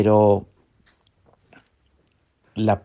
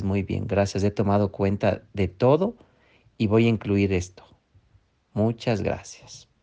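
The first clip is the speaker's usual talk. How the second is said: calm grateful reply; 3 semitones lower, 5 dB quieter than usual. Shown as a demonstration. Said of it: "Y tú le dices".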